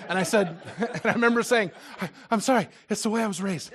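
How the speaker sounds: giggling through an apology; laughing. Real, not acted. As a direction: laugh helplessly at your own politeness. Laughing while retelling the call.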